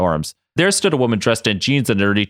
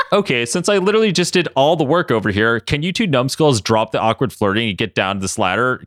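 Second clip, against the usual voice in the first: annoyed; 2 semitones higher than usual. Acted. Katie tells two numbskulls to stop flirting, annoyed. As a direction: order them with a touch of annoyance. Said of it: "Katie asked, annoyed".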